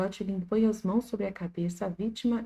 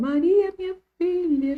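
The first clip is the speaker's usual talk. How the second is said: put-on tearful calling, higher and louder; 10 semitones higher, 7 dB louder than usual. Retelling an old couple's parting from maria: imitating crying while calling.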